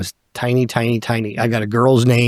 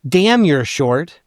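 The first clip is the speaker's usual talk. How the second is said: put-on slow, higher kid voice, lightly done; kid on the swing; 4 semitones higher, much slower than usual. Kindergarten friend on the swing telling him he's short, slow mock kid voice. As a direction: drawl it like a blunt little boy.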